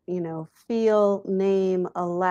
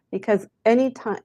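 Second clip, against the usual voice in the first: ordinary delivery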